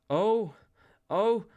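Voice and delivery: high, loud ecstatic ohs; repeated high cries with gaps between; inarticulate testifying. A narrator's reading. Joanna testifies as he nears, high inarticulate cries. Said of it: "Joanna inarticulately testified".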